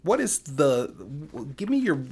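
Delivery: high, loud hammed-up questioning; bad acting. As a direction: ham it up like a pushy interviewer. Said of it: "I'm going to deliver it like this".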